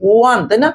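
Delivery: ওয়ান said as wan, with a clear w at the start; sounding out one. Shown as a demonstration. Teacher modelling how one is pronounced, careful and clear. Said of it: "একটু সাউন্ডটা আনো".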